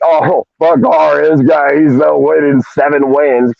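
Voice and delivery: slow, dismissive mock fan voice. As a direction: drag out a sneering fan's complaint, slowly. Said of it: "you're gonna be like".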